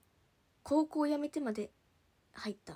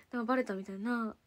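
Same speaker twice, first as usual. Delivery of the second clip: usual speaking voice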